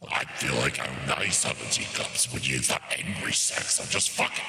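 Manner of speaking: demonic voice. Pretend. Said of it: "you went for demon vampire party boy".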